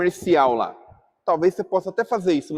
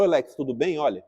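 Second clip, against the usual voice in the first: approach Alex kindly to clear things up; gentle reconciliation; 2 semitones lower, 3 dB quieter than usual. Shown as a demonstration. Speaker reconciles with Alex after not replying, soft and gentle. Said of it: "posso chegar no Alex e falar".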